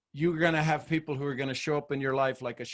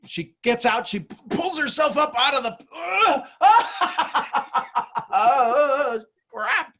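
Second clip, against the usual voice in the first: higher, louder, effortful strain; straining to climb out; 9 semitones higher, 6 dB louder, slower than usual. Acted. Coach acting out a woman hauling herself up, straining. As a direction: heave the words out, ending in a groan.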